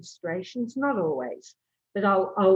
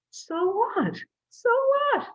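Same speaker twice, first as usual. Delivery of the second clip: high and louder, defiant so what; defiant self-talk; 4 dB louder, slower than usual. Shown as a demonstration. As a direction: shrug off shame, rising defiance. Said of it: "tell themselves".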